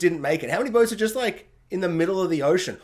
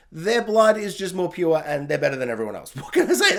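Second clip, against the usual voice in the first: laughing smugly. Pretend. Smug persona joke, laughing.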